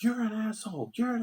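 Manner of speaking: mocking girly voice. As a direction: parody them in a high mocking voice. Mocking the girls' insult.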